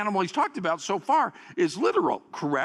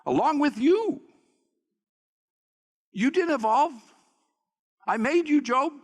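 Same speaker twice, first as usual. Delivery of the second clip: a hint of God speaking; 6 semitones higher, 3 dB louder than usual. Preacher voices God to Job.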